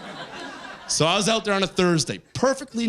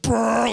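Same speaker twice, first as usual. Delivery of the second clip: high mock honk; imitated horn blast; 5 semitones higher than usual. Comic retelling the trucker's honk, imitated blast.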